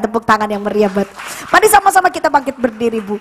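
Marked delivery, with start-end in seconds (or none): none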